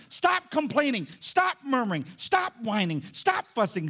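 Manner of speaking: punchy, repeated commands; emphatic rebuke. Acted. Preacher rebuking the grumblers, emphatic commands. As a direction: hit each stop hard, then drop. Preacher acting out being louder than noise.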